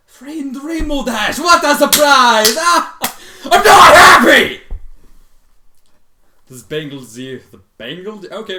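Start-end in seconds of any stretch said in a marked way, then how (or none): 0.1-4.6 loud, slow, higher put-on character shout; hammed-up zebra voice. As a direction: boom it out as an over-the-top Zecora. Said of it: "Zecora's lines voiced".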